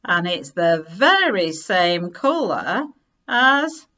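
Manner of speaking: high, loud, slowing shout; excited shout. A narrator's reading. Children shouting that the nest is Harry's sweater, loud. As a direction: shout it out together in discovery. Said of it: "they shouted together".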